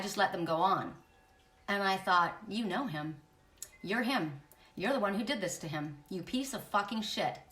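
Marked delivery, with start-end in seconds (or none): 2.5-7.4 hushed contempt. Retold or imitated. Inner realisation, contempt.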